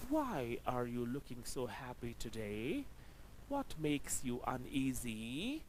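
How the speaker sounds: wh-questions read slowly with a dip and a rise. Shown as a demonstration. Teacher reads wh-question examples to students, slow and careful. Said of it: "W H questions".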